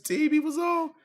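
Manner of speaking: disbelieving shout. Real, not acted. Friend hears the colorblind story, shouts in disbelief. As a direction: shout it, you can't believe what you're hearing. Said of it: "I done heard it all".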